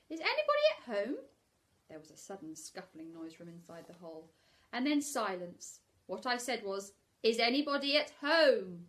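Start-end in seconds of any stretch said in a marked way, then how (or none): 0.1-1.2 high, loud call into the hole. Acted. Pooh calling into Rabbit's hole, loud call. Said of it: "called out". 7.2-8.9 loud calling out, dropping at the end. Acted. Pooh calling into the hole very loudly. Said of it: "called out Pooh very loudly".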